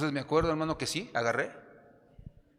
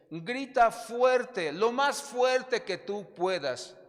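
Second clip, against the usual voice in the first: higher, louder, slow and emphatic; mother warning her son before a crowd, urgent; mother's urgent advice; 8 semitones higher, 6 dB louder, slower than usual. Retold or imitated. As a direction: drill the child urgently and slowly. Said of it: "me decía".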